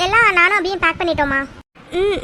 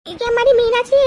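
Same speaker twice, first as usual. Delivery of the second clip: raised call across the house; 4 semitones higher than usual. Acted. Mother-in-law calling for Meenakshi, raised voice. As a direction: call her name from a distance.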